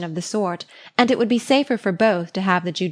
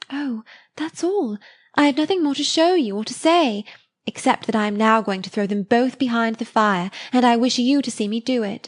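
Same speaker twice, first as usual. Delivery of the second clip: lightly voiced young girl, pitched up; a hint of a shy eager girl, higher; Harriet, earnest; 3 semitones higher than usual. Harriet to Emma about burning the keepsakes, lightly voiced eager girl.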